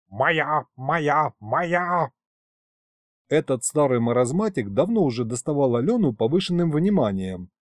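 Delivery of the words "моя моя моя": отрывисто, как лающий пёс; пролай слова как озабоченный пёс; лающий выкрик. A narrator's reading. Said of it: "тут же залаял, как озабоченный пёс". (колдун лает, как пёс, требуя девушку себе)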